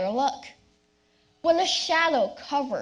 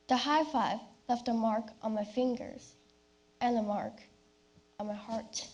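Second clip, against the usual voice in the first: soft sad refrain; 2 semitones lower, 5 dB quieter than usual. Acted. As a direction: let the refrain fade in grief. Refrain said again sadly.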